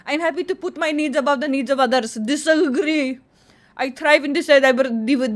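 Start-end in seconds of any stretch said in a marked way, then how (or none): 2.1-3.2 slow, stretched answer; drawn-out verdict. Pretend. Answering a personality quiz, long drawn-out. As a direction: hold the last vowel long.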